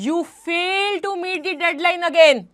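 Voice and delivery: slow, stern rebuke of an employee; harsh manager. Shown as a demonstration. Manager scolding an employee for missing a deadline, mildly harsh. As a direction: scold the worker slowly, a mild harshness. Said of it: "the harsh tone".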